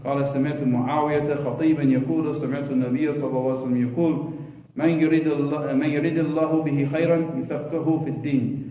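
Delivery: quick, fluent Arabic recitation; hadith recitation. Acted. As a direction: recite the narration briskly in Arabic.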